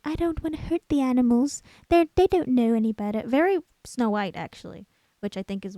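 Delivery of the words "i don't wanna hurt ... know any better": princess-like. Retold or imitated. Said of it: "She's very princess-like".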